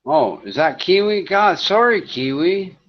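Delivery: suddenly flustered on realizing the slip; flustered surprise. Real, not acted. Host apologizing to a missed caller in chat, flustered.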